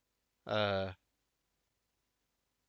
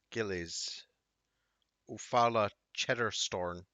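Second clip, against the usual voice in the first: usual speaking voice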